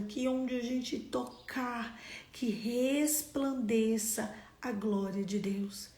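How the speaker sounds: measured prayer with drawn-out emphasized phrases; public prayer. Real, not acted. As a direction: pray aloud for the congregation, stretching key words. Leads the congregation in closing prayer.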